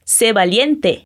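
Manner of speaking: "Sé valiente" slowly with a clear final T; "Sé valiente" drawn out, T sounded; very slow Spanish model. Shown as a demonstration. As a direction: stretch out "valiente", V as B, T crisp. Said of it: "a gente diz valiente com som de T".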